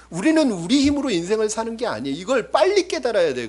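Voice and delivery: loud, high, driving sermon voice; full-force preaching. Acted. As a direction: preach it out to the whole church. (힘차게 외치는 설교)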